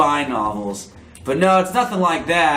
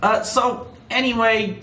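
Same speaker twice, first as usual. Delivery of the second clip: squeaky gorilla voice; 3 semitones higher than usual. Acted. Katie Kong voiced on phone.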